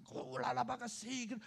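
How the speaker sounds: high babbled tongues; quick imitation of praying in tongues; speaking in tongues. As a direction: rattle off mock glossolalia. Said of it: "等一下听到我们说方言".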